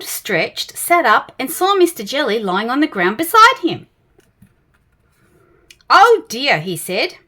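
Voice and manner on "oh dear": kindly. A narrator's reading. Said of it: "for he was a kindly tramp".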